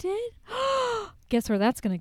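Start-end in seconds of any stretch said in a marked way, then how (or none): 0.0-0.3 surprised. Real, not acted. Told friend sent a photo. 0.5-1.1 delighted gasp. Real, not acted. Hears about the photo.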